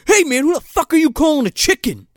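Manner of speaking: very high put-on indignant voice; hammed-up touchy outrage; mock offended. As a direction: overreact to an insult. Acting out touchy man taking offense.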